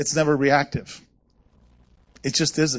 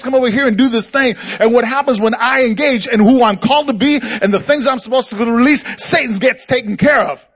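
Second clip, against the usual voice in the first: loud, high, driving pulpit voice; full-force preaching; 7 semitones higher, 5 dB louder than usual. Acted. Preacher to congregation, loud and fervent.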